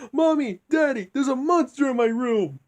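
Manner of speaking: put-on high, loud little-kid cry for help; scared kid calling. Kid running to parents' room, high panicked call. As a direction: call for mommy and daddy like a frightened child. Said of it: "the kid goes into his parents' room and says".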